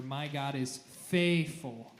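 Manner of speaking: slow and firm; strong emphasis on faithful; powerful. Shown as a demonstration. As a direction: sing it out with power. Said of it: "really be powerful".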